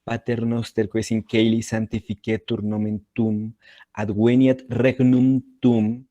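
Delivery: Pater noster read with hard k and w sounds; "caeli" as "keili", "adveniat" as "adweniat"; classical Latin. Shown as a demonstration. Teacher reciting the prayer in classical Latin for the class. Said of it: "que lo hable en clásico, va a sonar muy distinto".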